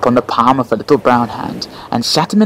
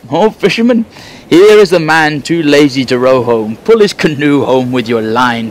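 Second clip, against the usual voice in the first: louder call toward the moon; 3 semitones higher, 6 dB louder than usual. Acted. Magician calls to the fisherman of the moon, loud call.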